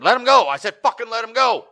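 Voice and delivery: retold yell to let him go; mock yell. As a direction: bellow it to stop the fight. Voicing Seth yelling at Dan.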